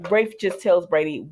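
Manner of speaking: usual speaking voice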